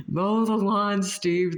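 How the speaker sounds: hammed-up North Boston nag; giggly North Boston accent repeating the chore. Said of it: "North Boston accent saying".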